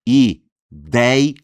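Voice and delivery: "Ideia" in three loud beats, i-DEI-a; syllable by syllable. Shown as a demonstration. Teacher shows galera the syllables of Ideia, loudly separated. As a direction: punch out each syllable of "Ideia" with gaps between. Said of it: "São três sílabas".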